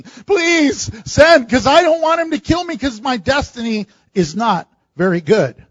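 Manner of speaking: begging and pleading. Pretend. Frightened preacher begs his viewers, hammed-up pleading. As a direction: beg like a frightened man. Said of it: "begging and pleading".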